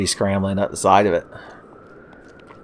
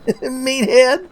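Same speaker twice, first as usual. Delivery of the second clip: high sneering Meathead; Archie Bunker impression; 14 semitones higher than usual. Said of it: "my beloved Archie and Edith Bunker impressions".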